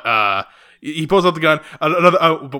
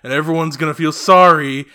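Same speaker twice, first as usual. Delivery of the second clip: mock sulky teen; 6 dB louder than usual. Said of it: "classic incel teenager behavior".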